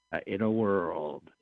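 slow, weighty trailer announcer; dramatic trailer voice. Pretend. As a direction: draw it out like a movie trailer. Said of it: "Can you do a dramatic In the World".

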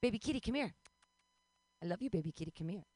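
lightly acted cajoling; coaxing a cat. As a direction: call the kitty over sweetly. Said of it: "catcall my cat all the time".

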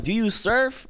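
high-pitched mock question; curious mainlander. People ask a Hawaiian about surfing, mock curious. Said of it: "people are like".

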